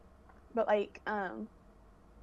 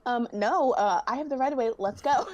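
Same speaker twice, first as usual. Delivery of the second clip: louder, slightly raised, dismissive refusal; mock impatient pedestrian; 3 semitones higher, 5 dB louder than usual. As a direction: brush them off as a pushy passerby, hammed-up. Acting out rude Londoners in street.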